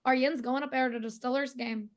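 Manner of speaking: Pittsburgh lingo with "yins" and short-i "Stillers"; Pittsburgh accent. Shown as a demonstration. Local giving her accent key phrase, Pittsburgh accent. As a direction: practice sentence in a Pittsburgh accent. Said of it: "the sentence I always say to get people into it".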